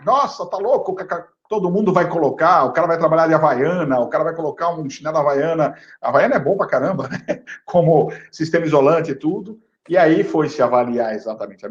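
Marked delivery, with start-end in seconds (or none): 0.0-5.8 mock alarm. Mocking the market's alarmed reaction.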